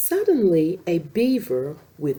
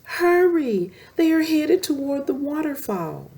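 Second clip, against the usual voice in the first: urgent shout; 8 semitones higher than usual. Acted. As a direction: yell a warning. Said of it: "Slap shouted".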